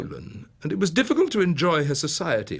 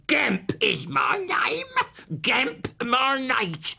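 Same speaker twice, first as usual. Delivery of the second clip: put-on slow, high, crowing old woman; Mrs Gamp; 10 semitones higher, slower than usual. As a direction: declaim it like a boozy old nurse. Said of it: "She was a fat old woman".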